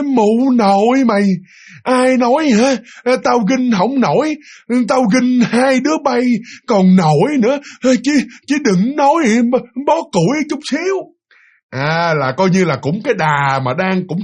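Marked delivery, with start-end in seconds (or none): 0.0-11.0 high, slow, drawn-out crone's scolding; scolding old woman. Retold or imitated. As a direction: scold them in a high, stretched granny voice. (giọng bà già mắng, kéo dài)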